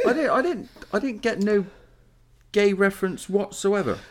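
high, giggling protest; laughing denial. Real, not acted. Podcast host laughing as he denies hearing anything gay.

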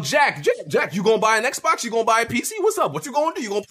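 playful retold badgering; mock pestering. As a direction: pester him with rising questions. Acts out badgering Jack with questions.

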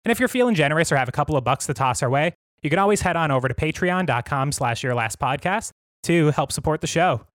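slightly winded, breathing between phrases; short of air after a long read. Real, not acted. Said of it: "I'm a little bit out of breath".

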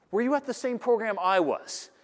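high, slow incredulous question; acted can't-believe-it astonishment; mock disbelief. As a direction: stretch it out in exaggerated bewilderment. Speaker acts own disbelief at praise.

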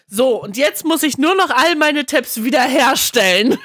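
high, loud, laughing; giggling while quoting; laughing through quote. Retold or imitated. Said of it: "sagt Frau Meier erstmal". (lachend zitiert)

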